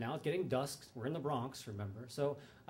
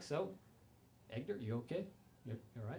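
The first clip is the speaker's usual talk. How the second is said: soft talk to bust; 4 semitones lower, 12 dB quieter than usual. Retold or imitated. Talking softly to Poe's bust.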